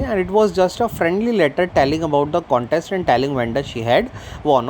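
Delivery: slow, careful read-aloud of the English text; story reading. A narrator's reading. Teacher reading the story slowly to her class. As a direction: read each word out slowly for the students.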